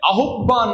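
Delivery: "আহ্বান" wrongly said a-huk-ban; deliberate mispronunciation. Shown as a demonstration. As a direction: say "আহ্বান" wrong on purpose, with a stop before ban. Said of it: "আমি নিজেই অশুদ্ধ উচ্চারণ করছি".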